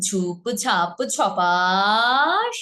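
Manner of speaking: ঝুপ ঝাপ ঝপাস stretched very slowly, rising on ঝপাস; slow, stretched rhyme sound; drawn-out sound word. Shown as a demonstration. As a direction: drag out "ঝুপ ঝাপ ঝপাস" with a long pull. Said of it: "এ টানটা দিয়েছি".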